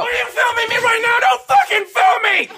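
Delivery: a hint of an irritable girl; man doing a woman's voice. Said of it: "Best impression of a girl on a period".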